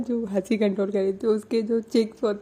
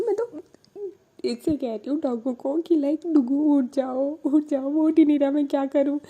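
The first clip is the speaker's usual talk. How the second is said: flustered excuse; 6 semitones higher than usual. Retold or imitated. Prachi making excuses about dog.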